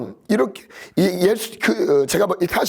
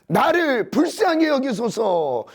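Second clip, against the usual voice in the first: pleading; 5 semitones higher, slower than usual. Retold or imitated. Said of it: "소리질러 이르되".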